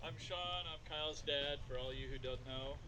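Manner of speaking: speaking too far from the microphone, faint; words lost away from the mic. Real, not acted. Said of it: "That better?".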